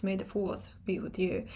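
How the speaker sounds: "fourth" with the R dropped; non-rhotic. Shown as a demonstration. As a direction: say "fourth" without its R. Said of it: "non-rhotic".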